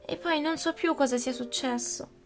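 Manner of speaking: put-on high, eager childlike pleading; urgent pleading. Marie interrupting her mother, high agitated pleading. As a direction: rush to explain the battle to mother. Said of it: "la interruppe Marie".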